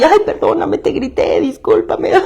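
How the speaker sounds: mock breezy apology, trailing to a near whisper; fake apology. Imitating someone brushing off a fight with a hollow sorry. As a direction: toss off a sorry you don't mean. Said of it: "no te estoy pidiendo perdón genuinamente".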